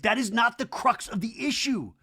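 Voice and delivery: hammed-up outrage, voice climbing; mock indignant rant. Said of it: "And Craig is like".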